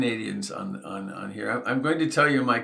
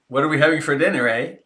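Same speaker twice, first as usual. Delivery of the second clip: put-on Canadian accent; 4 semitones higher, 7 dB louder, faster than usual. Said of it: "it's Canadian language".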